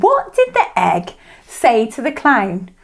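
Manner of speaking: slow, deliberate mock Russian; put-on Russian, drawn-out punchline; Russian accent. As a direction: tell the joke as a Russian. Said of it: "uh, Russian".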